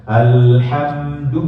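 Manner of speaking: slow alhamdu, lips rounded on du; rounded dhammah. Shown as a demonstration. Teacher modelling dhammah in alhamdu.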